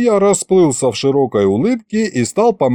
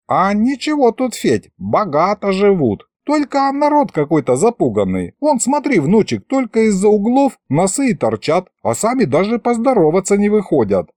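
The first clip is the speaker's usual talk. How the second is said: put-on high-pitched old man's commentary; folksy grandpa, chatty; 9 semitones higher than usual. Grandpa points things out to his grandson, chatty high voice. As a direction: remark on the sights like a village grandpa, pitched high.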